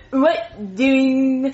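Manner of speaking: badly faked slow puppet-kid voice; Jeffy. Shown as a demonstration. Actress auditioning for the kid's part, clumsy imitation. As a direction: make an awful attempt at a dopey kid. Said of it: "let me hear your Jeffy voice".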